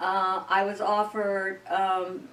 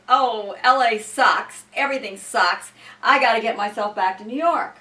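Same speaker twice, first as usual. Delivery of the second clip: mock complaining; 5 dB louder than usual. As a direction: sneer at L A like a homesick New Yorker. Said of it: "you put down everything in L A".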